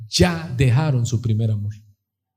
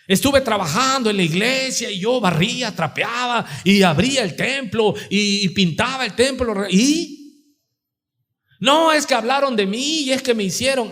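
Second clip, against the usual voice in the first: aggrieved church member; 6 semitones higher than usual. Acted. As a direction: plead your grievances as an offended volunteer. Voices offended member making excuses. (feligrés dolido quejándose, voz aguda)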